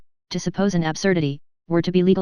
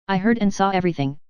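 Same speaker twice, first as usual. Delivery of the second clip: mild stress on saw. Acted. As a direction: lean on the verb saw. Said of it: "laying stress on the last verb".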